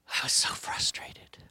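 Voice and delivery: slow, whispered confession of frustration; hushed, drawn-out, reliving the frustration; spent frustration. Retold or imitated. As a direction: let it out slowly in a whisper. Reliving his frustration on trail.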